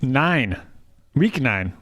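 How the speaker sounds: put-on host the segment in a Minnesotan accent. Hosting the podcast pick segment, light Minnesotan accent. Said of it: "what that accent was".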